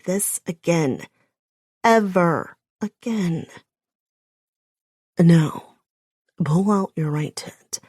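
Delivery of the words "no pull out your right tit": a hint of a deep, growling man, sharp first word; lightly voiced growl, commanding. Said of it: "in that deep, growling voice of his so low".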